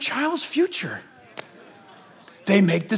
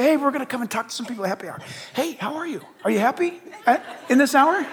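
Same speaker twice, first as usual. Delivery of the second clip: mock TV reporter; 3 semitones higher, much faster than usual. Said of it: "Walk into one of those happy hours and say".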